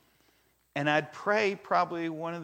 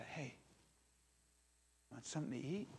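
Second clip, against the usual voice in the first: secretive hushed offer; 13 dB quieter, faster than usual. Pretend. Hidden offer to next guy.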